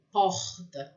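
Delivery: porta with a French-style R back in the throat; throaty R. Shown as a demonstration. Teacher compares R sounds for learners, guttural R. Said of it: "eu sinto na minha garganta".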